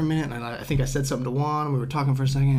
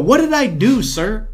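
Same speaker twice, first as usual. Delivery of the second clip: higher, pleading question; bewildered plea; 7 semitones higher, 5 dB louder, slower than usual. Retold or imitated. Clerk asking the accuser what he did wrong, bewildered plea. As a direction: ask it baffled and a bit whiny. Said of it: "I go".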